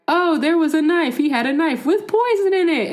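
high, innocent mock voice; mock whiny liar. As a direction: play the sneaky liar, whining. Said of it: "even though he says, like".

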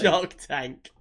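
drawn-out imitation American accent; mock American accent. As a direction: badly imitate an American saying it. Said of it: "just doing an American accent".

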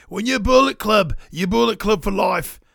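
lightly imitated wrestler voice; a hint of a put-on wrestler promo; Jay White impression. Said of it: "That was my Jay White impression".

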